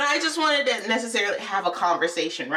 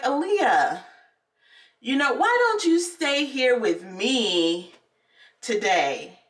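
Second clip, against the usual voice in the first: slow, drawn-out coaxing; coaxing teacher; slower than usual. Retold or imitated. Teacher asks a pupil to stay behind, coaxing. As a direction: imitate a teacher sweetly persuading.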